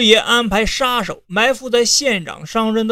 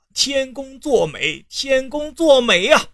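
laughing delight; 5 semitones higher than usual. Acted. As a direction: savour the win with a chuckle. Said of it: "师爷笑呵呵的就大笑了".

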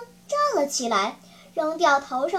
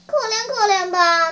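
acted plaintive plea; pleading; 3 semitones higher, 4 dB louder than usual. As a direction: beg the master for pity. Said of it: "开始哀求他说".

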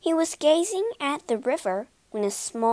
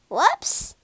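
high, swooping exclamation; an oops that leaps in pitch; startled whoops; 7 semitones higher than usual. A narrator's reading. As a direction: swoop up in surprise. Boat hits the bank.

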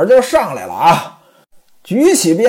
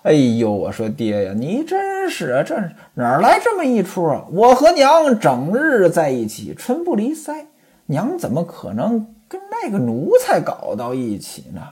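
lightly voiced coy maid; coquettish; 4 dB quieter than usual. Chunmei coos coyly in Ximen Qing's arms. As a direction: coo at him sweetly. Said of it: "娇滴滴地说".

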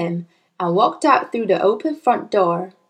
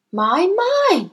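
gentle teacher voice; 9 semitones higher than usual. A narrator's reading. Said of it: "she said".

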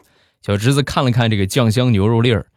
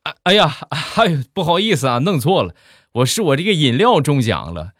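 put-on higher, apologetic young nurse; lightly voiced embarrassed apology; flustered nurse; 5 semitones higher than usual. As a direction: apologise in a raised, fluttery pitch.

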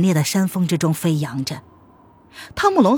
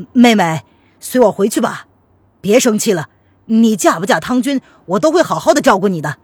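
louder, urgent coaxing; pleading elder brother; 5 dB louder than usual. Acted. Brother promises to look after his sister, pleading. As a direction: coax a sister to come home.

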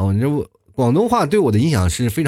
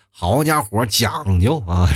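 Beijing accent; 3 semitones lower, much slower than usual. Shown as a demonstration. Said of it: "应该北京话".

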